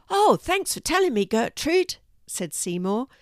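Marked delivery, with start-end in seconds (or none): 0.1-2.0 high, louder cat voice; high-pitched grateful cat; excited cat character. A narrator's reading. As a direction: thank eagerly in a raised voice. Cat reacts to exciting news.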